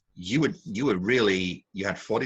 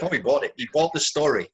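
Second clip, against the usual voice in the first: higher-pitched mock disbelief; imitating incredulous glee; 5 semitones higher, 4 dB louder, faster than usual. Judge mimicking the contestant who fooled him, mock-incredulous. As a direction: tease her as amazed she got away with it. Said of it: "you're totally incredulous, as if".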